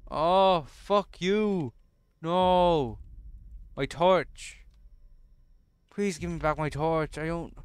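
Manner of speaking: loud, high panicked shouting; panicked yell. Real, not acted. Player yelling at Slender Man for stealing his torch, panicked shout.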